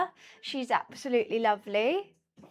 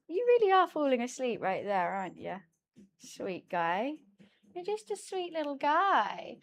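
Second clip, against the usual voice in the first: tender pet talk; 3 dB quieter than usual. Real, not acted. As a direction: coo gently so he stays asleep. Talking to her sleeping cat.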